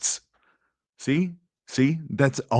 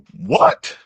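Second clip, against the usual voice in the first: much higher, louder shocked "What?"; real disbelief, pitched up; incredulous what; 8 semitones higher, 8 dB louder than usual. Real, not acted. Streamer stunned by the clip, loud high disbelieving "What?".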